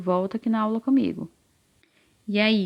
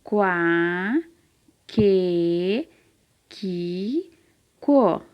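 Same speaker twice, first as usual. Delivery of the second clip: syllable drill; much slower than usual. Shown as a demonstration. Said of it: "Repete comigo".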